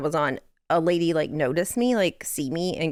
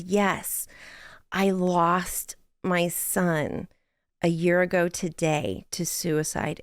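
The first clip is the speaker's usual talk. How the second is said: slow, halting words through held-back tears; tearful retelling; much slower than usual. Retold or imitated. Woman in the store telling her of her son, slow and tearful. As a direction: voice a grieving mother's confession, gently and slowly. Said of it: "crying her way through this".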